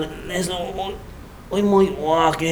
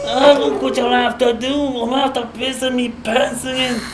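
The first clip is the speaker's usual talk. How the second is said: panicked begging; 3 semitones higher than usual. Acted. Man dangled in the air begs to be put down, panicked. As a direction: plead frantically for release.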